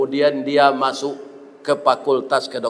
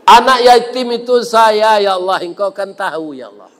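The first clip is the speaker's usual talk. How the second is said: acted tearful plea; 5 semitones higher than usual. Doctor recognises the patient and pleads to God, tearful. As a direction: imitate an anguished cry to God, dropping at the end. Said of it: "menangis Ewar Keli ini".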